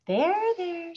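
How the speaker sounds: high, sing-song comfort; soothing. A narrator's reading. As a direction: console an upset lady. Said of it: "said the attendants".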